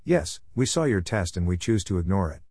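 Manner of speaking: lightly voiced heavy French accent. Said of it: "Best imagine with a heavy French accent".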